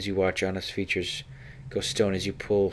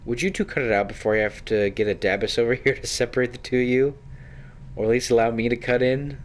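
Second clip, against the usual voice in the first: louder, laughing mock complaint at the lovers; teasing laugh; 4 semitones higher, 4 dB louder than usual. Onlooker teasing the kissing pair, laughing and loud. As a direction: butt in with an amused grin.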